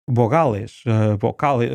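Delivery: Spanish accent, "bogales" with full even vowels; Spanish pronunciation. Shown as a demonstration. Linguist imitating how a Spaniard says vowels, Spanish accent. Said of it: "um espanhol diz".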